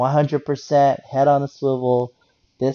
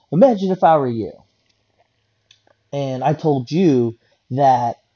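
raised, louder entitled caller; mock condescending lecture, pitched up at first; imitated entitlement; 5 dB louder than usual. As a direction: mimic an entitled man turning the tables. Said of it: "you could sense the entitlement in his voice".

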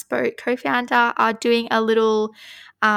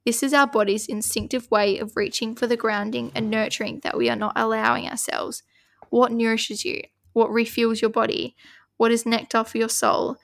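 measured oracle card reading; steady reading-aloud voice. Acted. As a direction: read the card out evenly.

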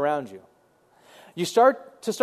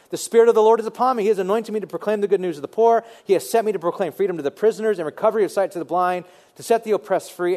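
proclaiming scripture; 2 semitones higher, faster than usual. Acted. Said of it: "This is that what Isaiah said".

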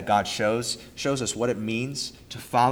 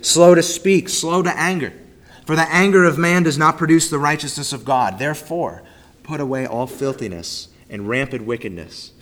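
measured, solemn Bible reading; formal reading of scripture. Acted. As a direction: read the passage aloud to the congregation. Rereads verses nineteen to twenty-one.

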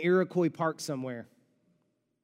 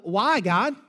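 anguished question to God; 4 dB louder, slower than usual. Acted. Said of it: "we will wanna know".

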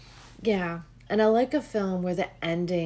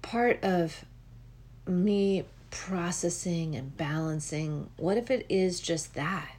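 gentle realization; 5 dB quieter than usual. Retold or imitated. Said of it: "But then I'm like".

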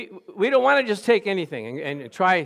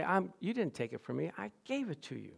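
softer, as a private vow; quiet; 2 semitones higher, 9 dB quieter than usual. Shown as a demonstration. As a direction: say it softly to yourself.

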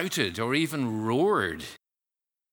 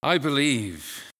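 slow, loud, higher I believe; loud cry; 5 semitones higher, 6 dB louder, slower than usual. Shown as a demonstration. Preacher echoing the father's cry, loud and slow. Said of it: "preacher repeats the cry".

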